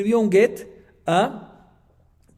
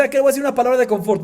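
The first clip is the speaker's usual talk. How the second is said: wife's voice; 8 semitones higher, 9 dB louder, much faster than usual. Retold or imitated. Wife's inner thought.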